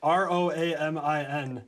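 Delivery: slow, letter by letter; spelled out. Real, not acted. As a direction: spell it out slowly for clarity. Spelling out the pun name.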